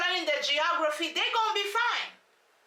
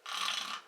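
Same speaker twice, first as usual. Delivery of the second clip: soft, rough snore imitation; mock sleeping noise; 8 dB quieter than usual. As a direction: imitate someone fast asleep. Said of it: "She was on the mindset of like".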